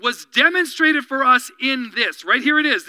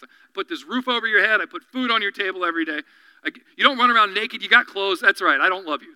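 mock aggrieved parent; 4 semitones lower, faster than usual. Parent voiced scolding child.

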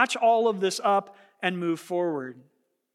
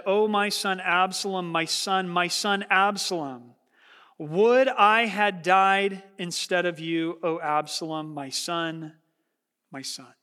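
grieving lament. Acted. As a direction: lament for a lost son, letting it die away. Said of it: "crying out in grief and anguish".

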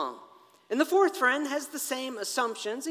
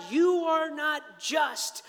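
slow, raised cry of protest; mock scream; 6 semitones higher, much slower than usual. Job screaming at God in retelling, mild mock scream. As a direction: protest slowly at a higher pitch, without full screaming. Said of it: "Job screams at God".

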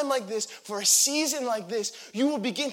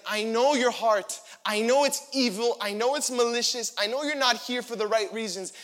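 accusing brother; 5 dB louder than usual. Acted. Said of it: "he's like".

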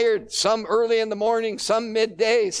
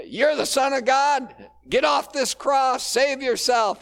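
mocking; 6 semitones higher, 4 dB louder than usual. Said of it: "is mocking him".

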